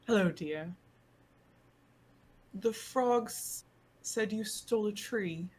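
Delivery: Sal, keeping back. Acted. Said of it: "but they'll be like".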